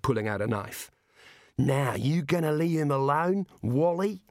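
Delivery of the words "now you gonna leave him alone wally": tough dwarf threat. Acted. Mad threatens.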